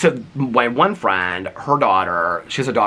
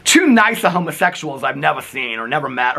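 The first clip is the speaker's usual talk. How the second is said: lightly imitated grandma, higher East Coast voice; real loud grandma; 5 semitones higher than usual. Grandma commenting on the couple, talking real loud. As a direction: proclaim it like a hard-of-hearing grandma. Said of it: "she talks real loud".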